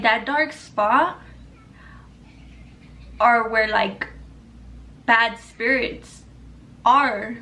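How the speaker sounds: slow, halting, with long pauses; hushed-campfire suspense without the hush; ominous explanation. Retold or imitated. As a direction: let each phrase hang eerily. Retells friend's warning about spirits.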